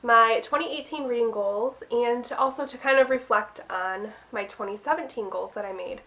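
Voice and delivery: blocked nose from a cold; stuffy nose. Real, not acted. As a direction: talk through a stuffy nose. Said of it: "if I sound super stuffy".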